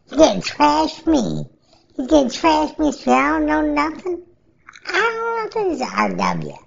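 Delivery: high squeaky alien guy, worried; little alien voice. Retold or imitated. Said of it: "I'm gonna use his little alien voice".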